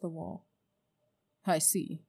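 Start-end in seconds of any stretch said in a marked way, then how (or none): 1.5-2.0 scornful. Acted. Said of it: "she said scornfully".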